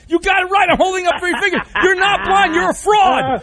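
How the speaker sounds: bust him like a fake, hammed-up; caught-you shout at a fake blind caller; mock outraged shout. Host mock-exposes caller's blindness claim.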